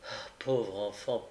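tender pity. Acted. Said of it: "dit monsieur Brownlow en s'abaissant".

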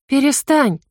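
high desperate plea; pleading cry. A narrator's reading. Girl begs the witch to stop hurting him, high and pleading. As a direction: beg her to stop. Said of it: "взмолилась я".

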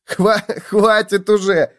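high, stuttering mirth; stammering with laughter. A narrator's reading. Gopher begs bedbug to stop, helpless with mirth. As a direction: break the first word, overcome with giggles. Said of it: "заикался от смеха Суслик".

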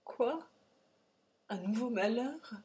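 pressant, haut et fort, panique montante; angoisse pressante. A narrator's reading. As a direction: supplie vite, la peur au ventre. Père angoissé questionne sur sa fille. (père affolé, voix haute et pressante)

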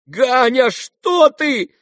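high, loud motherly plea; alarmed cry. Acted. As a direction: cry out to stop the son. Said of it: "крикнула Нина Александровна".

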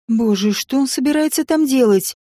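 ordinary delivery

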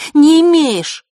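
high, loud furious retort; angry shout. Acted. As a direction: snap it back, shouting. Girl slaps him, shouting.

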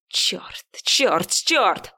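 whispered furious curses; hissed curses. Acted. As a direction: spit the curses under your breath. Viktor curses, beating the wheel. (шипящие ругательства шёпотом)

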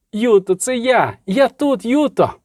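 high, slow, urgent reassurance; anxious lover. Acted. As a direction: reach her through the fever, pitched high. Рейневан кличе хвору. (схвильовано й високо, щоб вона почула)

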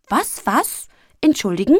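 high, loud indignant squeak. A narrator's reading. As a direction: squeal it in outrage. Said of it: "quiekte das Männchen ganz rot vor Aufregung".

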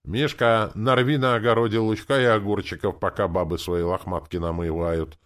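loud, high call with an instruction; giving orders. A narrator's reading. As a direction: order the lad about, easing off at the end. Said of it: "распорядился".

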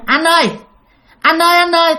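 lightly voiced young woman calling him softly; a hint of a gentle female ghost; soft girl's voice. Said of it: "một cái giọng rất là nhẹ nhàng, là giọng con gái".

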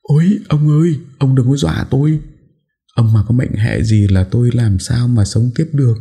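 wife begging him not to scare her; frightened cry. A narrator's reading. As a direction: cry out in fear for her husband. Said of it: "Bà cả vội kêu lên".

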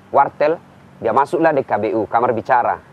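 normal talking voice

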